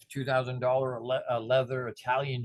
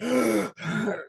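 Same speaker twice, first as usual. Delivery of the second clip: retold gasp; 8 semitones higher, 4 dB louder than usual. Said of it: "he's sputtering and sputtering".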